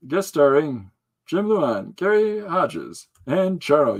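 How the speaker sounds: slow, drawn-out "guest starring Jim Luan"; slow announcer read. Shown as a demonstration. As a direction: stretch each name out slowly. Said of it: "but when it comes to".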